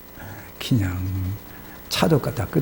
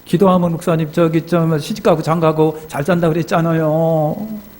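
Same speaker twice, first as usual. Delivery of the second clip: slightly raised, whiny mock complaint; whining tearful protest; 3 semitones higher than usual. Woman reminding pastor of his promise, whining. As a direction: drag out the ending in protest. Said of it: "막 전화를 우는데".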